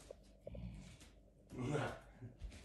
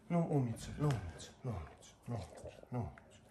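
soothing praise; 2 semitones lower, 5 dB quieter than usual. Real, not acted. Soothing the dog at nail clipping.

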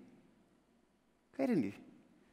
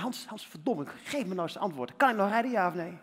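urgent demand. Retold or imitated.

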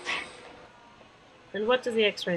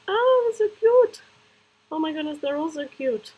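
gushing; 8 semitones higher, 3 dB louder than usual. Real, not acted. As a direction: melt over something adorable. Gushing over baby clothes.

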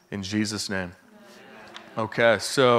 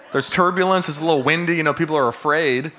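higher and louder, animated; excited; 4 semitones higher, 3 dB louder than usual. Real, not acted. Preacher jokes to church about scared flyers, excited. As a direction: pump it up with playful energy.

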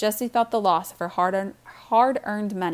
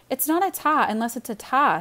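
bratty; 6 semitones higher, 3 dB louder than usual. A narrator's reading. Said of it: "knowing she sounded like a brat".

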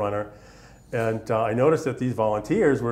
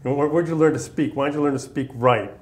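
imitating a loud drill sergeant, higher and louder; hint of a Southern drill sergeant, louder; 4 semitones higher, 5 dB louder than usual. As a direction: needle the recruit like a rough Southern sergeant. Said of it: "is real Southern, real hardcore, gravelly voice, loud".

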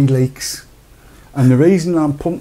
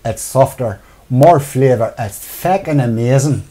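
put-on Irish accent. Host reads viewer comment in a mild mock Irish accent. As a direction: read the viewer's comment in a hammed-up Irish lilt. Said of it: "this has got to be read in an Irish accent".

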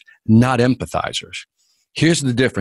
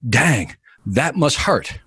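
slow sympathy; much slower than usual. Retold or imitated. Voicing a sympathizer's reaction.

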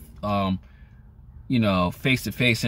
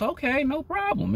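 shrug it off; 3 dB quieter than usual. Retold or imitated. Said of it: "just say it like this".

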